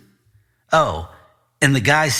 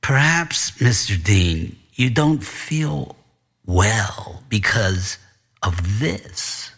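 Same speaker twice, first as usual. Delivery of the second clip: sinister principal; 2 semitones lower, slower than usual. Acted. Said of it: "said with another snort".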